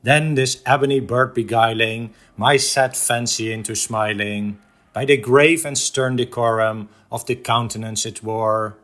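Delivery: measured, rhythmic verse reading; solemn cadence with a hushed final word; poem recitation. Acted. Recites The Raven stanza by stanza.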